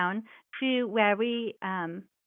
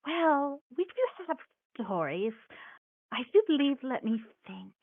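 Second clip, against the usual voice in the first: put-on kindly forgetful old mouse; chatty granny mouse, gentle; grandmotherly mouse voice.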